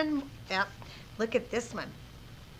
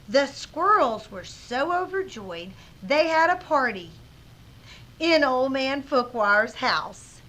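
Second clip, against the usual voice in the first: put-on dot-dot-dot beat before "in Old Man Fookwire's house"; suspenseful pause; 2 semitones higher than usual. Shown as a demonstration. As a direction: hang on "party", then reveal "in Old Man Fookwire's house". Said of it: "listen to the way that I read".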